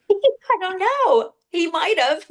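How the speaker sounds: high, laughing admission; amused laughing. Real, not acted. Client answers medium about son maybe tripping, laughing. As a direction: laugh through a drawn-out, unsure answer. Client cracks up at trip question.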